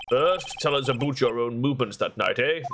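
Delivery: a hint of accidental Canadian; slightly Canadian accent. Lawyer asks witness about her movements, lightly Canadian accent. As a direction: slip lightly into Canadian with a final "eh". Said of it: "he went very Canadian".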